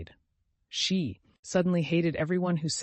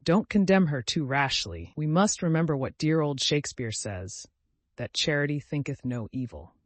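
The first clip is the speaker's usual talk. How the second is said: soothing; 2 semitones higher, 4 dB louder than usual. Acted. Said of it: "said Cousin Georgiana soothingly".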